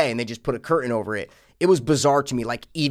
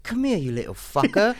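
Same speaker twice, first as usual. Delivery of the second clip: higher, gleeful "Come here, you little fucker."; playful menacing line; 5 semitones higher than usual. Acted. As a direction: ham up the villain's taunt. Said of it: "your line is more fun if".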